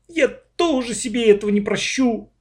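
a high, anguished near-wail; almost howl it in remorse. A narrator's reading. Lyoshka blames himself before the class, near wailing. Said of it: "чуть ли не взвыл Лёшка".

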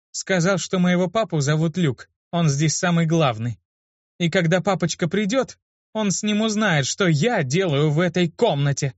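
high, lightly voiced child; child's voice. Girl retelling what the child told her, childlike. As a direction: quote the little kid sweetly.

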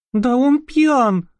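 put-on high, slow, trembling girl's voice. Marusya frightened by the drunk tramp, trembling. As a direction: gasp it out in fear. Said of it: "дрожащим голосом сказала Маруся".

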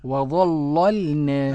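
slow chanted "وظللنا", heavy first ل; thickened first lam. Shown as a demonstration. Student echoes the teacher, first ل of "وظللنا" thickened. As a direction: copy "وظللنا" with dark first ل and thin second. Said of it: "أغلظ اللام الأولى ورقق الثانية".

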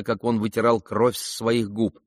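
ordinary delivery, nothing marked

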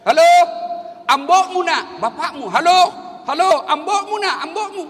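loud, high hallo shouted down a phone; mock yelling into the receiver; retold phone yelling. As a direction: holler for someone on a dead line, comically. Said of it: "Langsung dia teriak".

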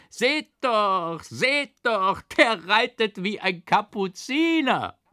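high loud mocking call; jeering farmers. A narrator's reading. Farmers jeer at the clumsy rider, mocking call. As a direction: jeer and point, laughing. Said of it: "lachten ... und riefen".

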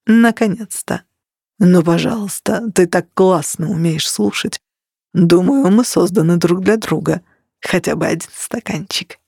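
lightly voiced Italian charmer; warm smooth leading man. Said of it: "бархатным баритоном".

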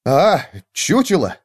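slow, relieved "ah"; relieved exhale. A narrator's reading. Hare learning it is a dummy, relieved. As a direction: let the worry out slowly. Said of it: "облегченно выдохнул заяц".

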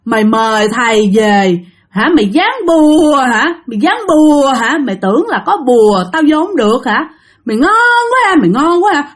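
high, taunting ghost voice; ma nữ thách thức. Acted. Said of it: "nó vừa nói mà nó vừa cười". (giọng ma cao, thách thức)

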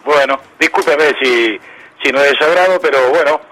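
hoarse, raspy morning voice; rough, gravelly throat this morning; voz aguardentosa. Real, not acted. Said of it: "Qué voz aguardentosa que tiene hoy". (voz ronca y aguardentosa)

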